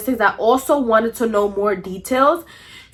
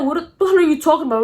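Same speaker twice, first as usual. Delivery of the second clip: quick, higher-pitched mock indignation; acting angry; 4 semitones higher, faster than usual. Boyfriend asked about Cece, acting angry. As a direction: imitate an angry denial, rushed. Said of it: "acting, like, angry and stuff".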